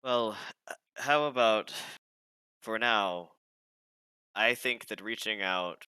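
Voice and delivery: measured, courtly lady speaking; noble lady NPC voice. Acted.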